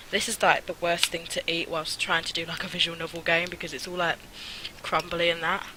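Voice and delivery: talking while eating cake; mouth full. Real, not acted. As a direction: chew and talk at once. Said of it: "sorry to talk with my mouth full".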